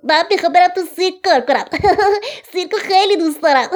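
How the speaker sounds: excited little monkey voice; baby monkey. A narrator's reading. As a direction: chatter fast and break into monkey giggles. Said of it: "بچهٔ میمون گفت".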